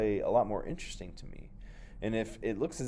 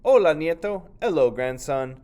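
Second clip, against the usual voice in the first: higher, louder kindly grandma voice; grandmother's greeting; 8 semitones higher, 11 dB louder than usual. Acted. Abuela greeting her grandson, higher and louder. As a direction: greet your grandson warmly.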